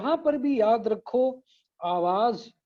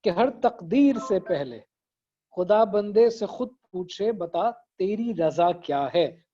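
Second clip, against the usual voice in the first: slow, measured couplet recital; verse recitation; slower than usual. Shown as a demonstration. Teacher reciting an Iqbal couplet to class, verse recitation. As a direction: recite the lines deliberately, pausing between phrases. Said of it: "बड़ा खूबसूरत शेर है".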